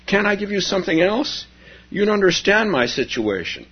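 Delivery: high, insistent plea; pleading. Acted. Character pleading in story.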